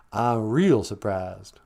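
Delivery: slow it way down on the repeat. Shown as a demonstration.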